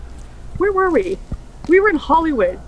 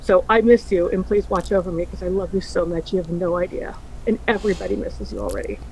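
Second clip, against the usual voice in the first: tearful farewell; 5 semitones lower, 5 dB quieter than usual. Real, not acted. Tearful goodbye to late friend.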